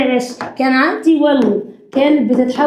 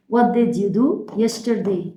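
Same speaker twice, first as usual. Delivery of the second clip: slow dictation read; 4 semitones lower, 4 dB quieter, much slower than usual. Shown as a demonstration. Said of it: "اكتب ورايا".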